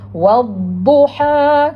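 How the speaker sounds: "wadduha" very slow with long vowels; recitation demo. Shown as a demonstration. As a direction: stretch "wadduha" out in a sustained recitation. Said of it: "Kita baca kan?".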